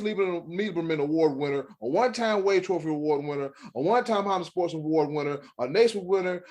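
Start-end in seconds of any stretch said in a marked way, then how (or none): 1.8-6.4 running out of breath; breathless after a long list. Real, not acted. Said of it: "I'm out of breath".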